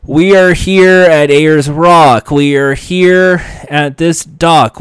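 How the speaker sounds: lightly voiced reality host proclaiming; a touch of a TV host's dramatic announcement. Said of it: "Phil Kogan will bring up some important event".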